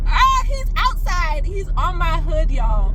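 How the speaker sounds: high wailing alarm; real panicky whine; freaked out. Real, not acted. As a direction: cry out where the creature is. Tracking the lizard in panic.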